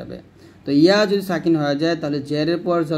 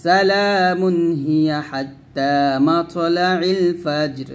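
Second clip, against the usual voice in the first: very slow melodic chant in one flowing line; Quran recitation; much slower than usual. Shown as a demonstration. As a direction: intone it like tilawat, unhurried. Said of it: "এই দুটো মিলে পড়বো". (ধীর সুরেলা কোরআন তেলাওয়াত)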